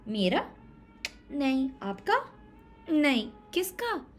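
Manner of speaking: high quiz questions. Shown as a demonstration. Teacher quizzing children whose rabbit it is, high. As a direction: tease the children with guesses. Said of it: "quizzing children".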